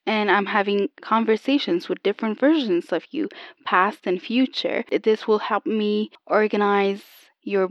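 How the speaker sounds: put-on tinny old telephone line. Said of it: "You kinda sound like an old telephone".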